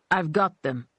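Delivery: menacing thug voice. A narrator's reading. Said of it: "he told his boss in Russian".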